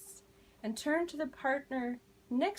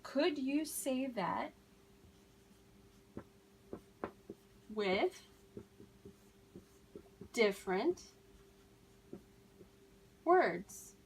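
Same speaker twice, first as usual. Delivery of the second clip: slow, with long pauses between words; slow model phrase; slower than usual. Shown as a demonstration. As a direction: break it up word by word for learners. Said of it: "ask them to use different words".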